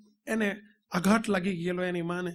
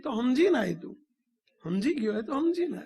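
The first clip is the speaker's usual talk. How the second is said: pointed retort; 5 semitones higher than usual. Retold or imitated. The swami pressing the boy on the phone, pointed and higher.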